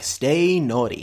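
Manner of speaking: low, slow "Stay naughty"; co-host's low version of the sign-off; low take. Shown as a demonstration. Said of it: "and go low".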